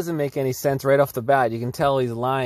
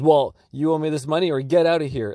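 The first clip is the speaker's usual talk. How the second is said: higher, put-on pushy shopkeeper; mock demand; 4 semitones higher, 3 dB louder than usual. Commentator doubts owner's story by acting it out, mock demanding. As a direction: imitate an owner demanding payment.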